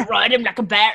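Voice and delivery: Scottish accent attempt. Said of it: "I can't do a Scottish accent".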